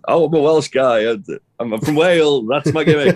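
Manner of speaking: high, loud mocking voice of a proud Welshman; mock Welsh guy. Podcast host mocking the wrestler's Welsh gimmick, high and loud.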